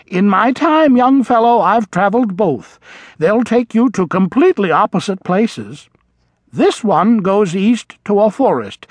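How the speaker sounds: put-on a worldly old creature giving advice; knowing old vole. A narrator's reading.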